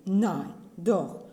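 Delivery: loud amazed insistence; insist, still amazed yourself; astonished. A narrator's reading. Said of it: "Verblüfft".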